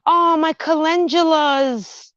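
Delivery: high, slow, adoring; delighted gasp. Real, not acted. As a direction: swoon over the flowers. Admiring her flowers.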